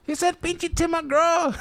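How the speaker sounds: high, drawn-out imitated holler; calling out. Student relaying heckle to the back, calling out. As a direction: relay it across the crowd. Relaying joke across the crowd.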